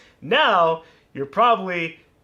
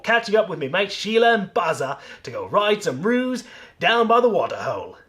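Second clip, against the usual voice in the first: loud, hammed-up Australian accent; 3 semitones higher, 5 dB louder than usual. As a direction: read it out as a broad, hearty Australian. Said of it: "read this out loud in my best Australian accent".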